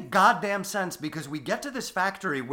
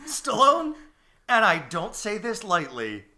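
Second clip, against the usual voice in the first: Stallone voice. Acted. S2 voices Stallone praising the film.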